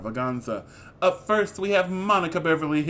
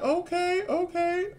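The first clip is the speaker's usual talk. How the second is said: sassy okay; 13 semitones higher than usual. Retold or imitated. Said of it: "I'm like".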